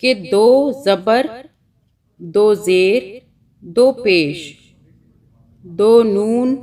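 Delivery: slow, loud "दो ज़बर, दो ज़ेर, दो पेश, दो नून", with दो stressed each time. Shown as a demonstration. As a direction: stress each "दो" clearly, slowly, like a teacher. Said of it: "सबको ये बताएं". ("दो" पर ज़ोर देकर, धीरे-धीरे)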